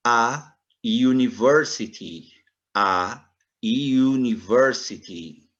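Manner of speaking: "university" slowed, starting with a Y sound; slow model word. Shown as a demonstration. Teacher slowly models "a university" for students. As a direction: say "university" as "yu-niversity". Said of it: "como se tivesse um Y na frente".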